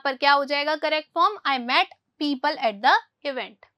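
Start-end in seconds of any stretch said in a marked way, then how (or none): 1.5-3.7 slow reading. Shown as a demonstration. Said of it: "teacher reads corrected sentence".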